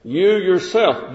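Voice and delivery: You yourself said slowly, both words pressed; emphatic. Shown as a demonstration. Preacher demonstrating the emphatic You yourself, slow. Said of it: "That was for special emphasis".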